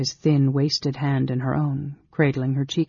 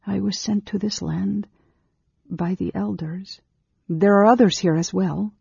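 higher, careful reply; higher-pitched character answer; lightly voiced Amberol; 6 semitones higher than usual. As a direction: answer in a raised, restrained voice.

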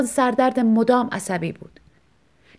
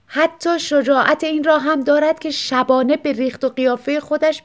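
higher, louder sneering jibe; mock him with a scornful smirk; wife sneering at her vain husband; 6 semitones higher, 4 dB louder than usual. A narrator's reading. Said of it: "با پوزخندی ... زیر لب گفت".

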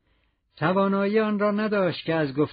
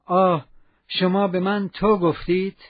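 louder and higher, a glad cry; Cosette's happy exclamation; joyful cry; 4 semitones higher, 4 dB louder than usual. Acted. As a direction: burst out in delight at being called تو. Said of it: "با شادی فریاد کشید".

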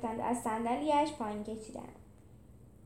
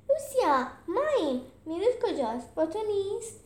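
calling out; 8 semitones higher, 3 dB louder than usual. Acted. Friends calling Lucia in crowd.

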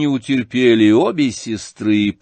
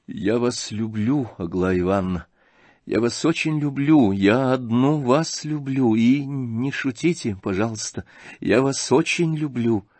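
медленно и тихо, искренне; признаётся в любви просто и тихо; искреннее признание; 2 semitones higher than usual. Acted. (князь тихо признаётся Аглае в любви)

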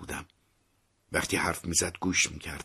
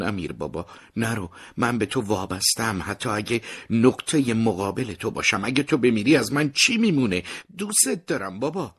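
pleading; 5 semitones higher, 5 dB louder than usual. Acted. Son pleading with dying father.

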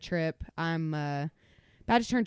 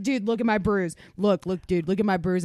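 mock eager, a bit louder; 5 dB louder than usual. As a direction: show off a bruise eagerly. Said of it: "He's like".

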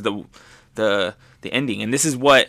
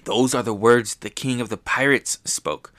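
inner thought. Retold or imitated. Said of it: "she thinks to herself".

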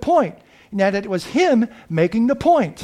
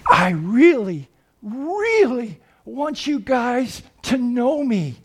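tender plea; 4 semitones higher, slower than usual. Retold or imitated. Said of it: "God's words to him".

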